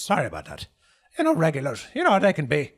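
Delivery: smooth things over with the guests; apologetic innkeeper. Acted. Tavern keeper apologizing to party.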